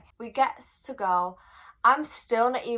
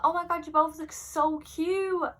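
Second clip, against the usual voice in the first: high, drawn-out gushing star impression; 8 semitones higher, slower than usual. Singer gushing over a fan and mum, high imitated voice. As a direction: imitate the singer cooing, pitched well up. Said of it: "do it in her accent".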